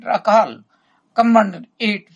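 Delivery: half-hearted mock call across the room; mild retold shout. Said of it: "And then he shouted".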